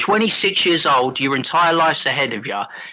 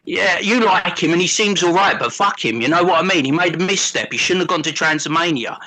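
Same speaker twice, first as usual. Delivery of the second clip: lightly voiced South London geezer ranting; a hint of a London lad mouthing off, bruv; mild South London tirade at a mate. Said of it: "South London James voice".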